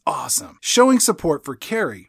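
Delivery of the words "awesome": slightly softer imitated murmur; mild low aside, imitating Tommy; under his breath. Tommy supporting Carrie after her poem, mild murmur. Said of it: "under his breath, he says".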